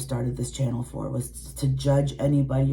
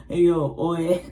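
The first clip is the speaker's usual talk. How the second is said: Italian tough talk; 3 semitones higher, 4 dB louder than usual. Retold or imitated. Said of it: "so if I sound very, like".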